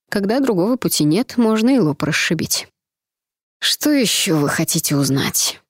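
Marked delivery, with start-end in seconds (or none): 3.6-5.6 creaky baron. Acted. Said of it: "проскрипел барон".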